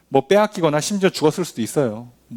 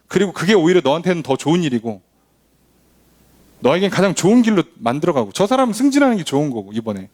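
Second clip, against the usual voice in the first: voicing God. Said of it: "하나님 뭐라고 얘기하시냐고요".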